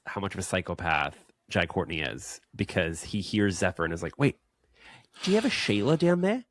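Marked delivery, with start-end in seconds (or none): 4.2-6.5 put-on high, loud Aussie accent with laughter; Australian accent. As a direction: ham up a broad Australian accent. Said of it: "this accent".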